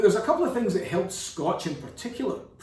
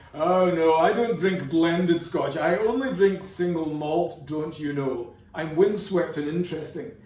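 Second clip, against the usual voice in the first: snobby single malt drinker; 4 dB louder than usual. Retold or imitated. Mocking malt snobs who sneer at blended Scotch, lightly haughty. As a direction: sniff at blends like a mild connoisseur snob. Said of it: "a lot of people I hear all the time are like".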